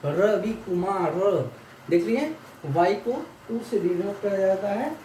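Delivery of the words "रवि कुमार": रवि कुमार said slowly, each sound clear; teacher models रवि कुमार in Russian letters; slow pronunciation demo. Shown as a demonstration. Teacher reads name in Cyrillic for students, slow demo. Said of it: "पी को र कैसे कहते हैं ना".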